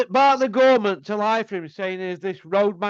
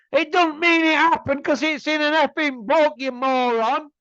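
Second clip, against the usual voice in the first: higher and louder, exasperated snap; angry outburst; 6 semitones higher, 4 dB louder than usual. Real, not acted. Vlogger berating gullible fans, angry and louder. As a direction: scold them like fools who swallow anything. Ranting at fans who believe book.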